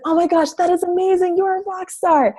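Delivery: excited praise. Retold or imitated. Coach retelling how she praised a client, excited. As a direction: gush over her like you're starstruck. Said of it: "And I said".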